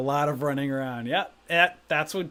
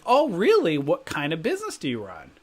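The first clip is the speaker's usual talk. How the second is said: perked up. Retold or imitated. Prospect hears about a business, imitated as perking up. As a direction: pitch leaps up on "Oh, really?". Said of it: "they'd always perk up".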